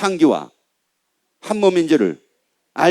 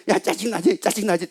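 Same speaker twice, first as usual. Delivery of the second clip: soft, lightly acted goading; understated needling devil; tempting devil; 5 dB quieter than usual. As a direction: slip in a quiet provocation. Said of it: "마귀가 하는 말이".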